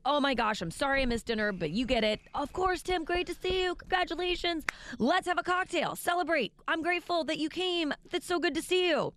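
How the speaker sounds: gushing pretend greeting. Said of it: "You are supposed to go meet them and go".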